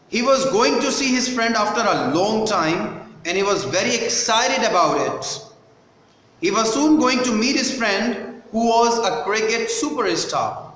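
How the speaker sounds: measured sample reading with pauses at phrases; textbook read-aloud. Shown as a demonstration. Teacher reading the story to a class, measured read-aloud. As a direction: read it out carefully for pupils following along.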